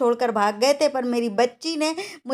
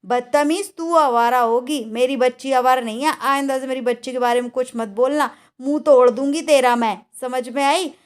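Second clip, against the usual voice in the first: angry scolding. Real, not acted. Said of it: "बहुत तेज गुस्सा आ रही थी".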